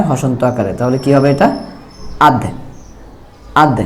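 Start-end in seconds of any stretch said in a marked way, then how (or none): 2.2-3.8 "আধ" with the final consonant closed by hasanta; clipped consonant ending. Shown as a demonstration. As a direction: say "আধ" as a short syllable ending on a stopped d. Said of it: "এরকম".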